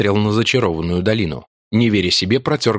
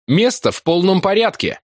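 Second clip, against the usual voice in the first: shout; 10 semitones higher than usual. A narrator's reading. Calling out to friends.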